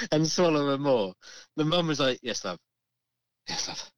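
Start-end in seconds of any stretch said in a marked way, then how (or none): 2.2-3.9 imitated long-suffering mum, low and soft; weary mum. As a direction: answer low and quiet, patience worn thin. Worn-down mum answers nagging child.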